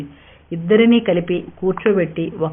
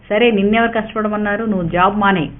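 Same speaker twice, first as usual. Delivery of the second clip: firm and forceful. Acted. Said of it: "Vineel గట్టిగా అన్నాడు".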